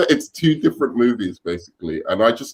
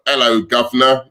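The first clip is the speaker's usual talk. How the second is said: mock British accent; 4 dB louder than usual. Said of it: "sounded like fucking".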